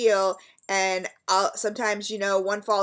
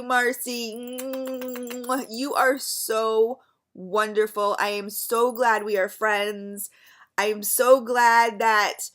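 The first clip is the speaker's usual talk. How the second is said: slow, heartfelt words to a friend; mean every word, take your time; sincere and slow. Real, not acted. Vlogger tells her friend Marcy she loves her, slow and sincere.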